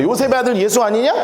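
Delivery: mildly scoffing, rising at the end; sarcastic questioning. Acted. Crowd belittling Joseph's son, mildly sarcastic. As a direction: question him as a nobody. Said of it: "지금 빈정되는 거예요".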